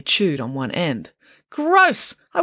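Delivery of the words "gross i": disgusted. Acted. Disgust at chewed pencil.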